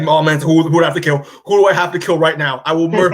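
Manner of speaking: mock angry threat. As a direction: play the father half in earnest, out for revenge. Acted furious father's threat in retelling.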